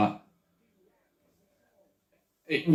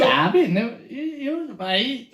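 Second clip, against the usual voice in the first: attempted Welsh accent; 10 semitones higher than usual. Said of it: "do your best Welsh accent".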